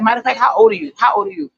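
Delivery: mock confrontation, pressing the question; retold challenge. Young girl confronting a man on the bus, imitated challenge.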